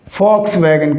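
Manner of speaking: "Volkswagen" opening with F, as "Folks-vagen". Shown as a demonstration. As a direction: say "Volkswagen" with an F for the first V. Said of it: "कौन सी".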